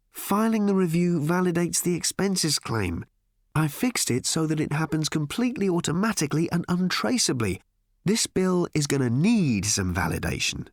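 lightly voiced Ford, a touch sly; Ford's voice. Ford telling Arthur his expense trick, lightly sly.

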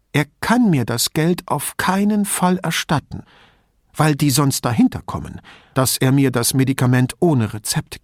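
put-on old lady, indignant and chatty; old signora. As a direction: play the suspicious old woman complaining about thieves.

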